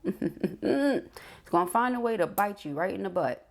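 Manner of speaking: chuckling through a playful warning, slowed down; laughing. Real, not acted. Tarot reader teasing viewers about karma, laughing slowly. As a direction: laugh it out slowly like a cheeky threat.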